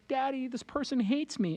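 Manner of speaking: a hint of a sad kid's voice; hurt little daughter. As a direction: imitate a small child telling Daddy. Voicing his hurt little daughter.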